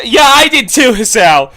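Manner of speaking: high, loud retort; exasperated shout. Real, not acted. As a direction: yell back at the story, still startled. Startled reader talks back to character.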